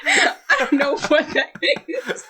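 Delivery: high-pitched talk through real laughter; cracking up at your own flop; laughing. Real, not acted. Owning up to the botched accent, laughing.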